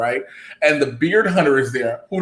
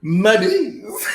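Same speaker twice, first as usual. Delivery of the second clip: laughing quote; 5 semitones higher than usual. Retold or imitated.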